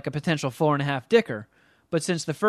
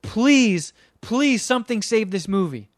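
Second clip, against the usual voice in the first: loud, pleading, high-pitched rant at the screen; mock-furious plea; exasperated rant; 5 semitones higher, 4 dB louder than usual. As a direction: beg the movie to end, fed up. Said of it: "I was infuriated".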